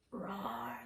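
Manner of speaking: low soft playful roar; mock lion roar. Grandma giving a mild lion roar in a riddle. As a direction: growl it like a gentle lion.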